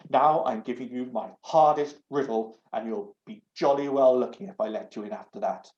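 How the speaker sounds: huffy, prim doorknob lecturing; loud, scandalised talking knob; indignant doorknob. Acted. Doorknob voice held, cross.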